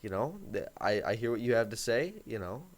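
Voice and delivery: soft, low, quiet reasoning with her; calm tone when she gets angry; calm, reasoned. Shown as a demonstration. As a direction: quietly talk her down without giving in. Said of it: "You gotta be, you know".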